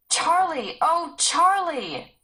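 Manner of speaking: loud, high, drawn-out calls. Acted. Sarah calling for Charlie into the valley, very loud, stretched call. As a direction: ram his name into the valley. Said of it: "Her voice was so loud".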